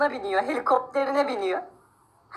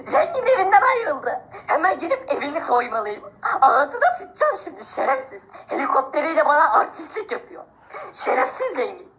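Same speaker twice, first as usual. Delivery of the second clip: mock crying; 4 semitones higher than usual. Poor man whines about rich man.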